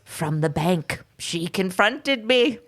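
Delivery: lightly hammed-up aged confession; withering old man. Podcaster reading the suspect's account of his wife, melodramatic old man. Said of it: "keeps getting older and older".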